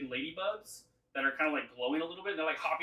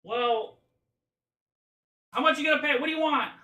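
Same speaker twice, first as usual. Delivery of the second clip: high, loud, demanding creature voice; squawky little monster demanding payment; haggling creature leader; 13 semitones higher, 9 dB louder than usual. Acted. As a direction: haggle brusquely in a pitched-up monster voice. GM plays creature bargaining.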